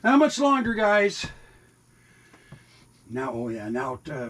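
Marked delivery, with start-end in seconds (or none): 0.0-1.2 high, bright sing-song to the cats; high pet voice, a bit louder; pet talk. Real, not acted. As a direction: coo at the hungry cats, pitched way up. Talking to his waiting cats.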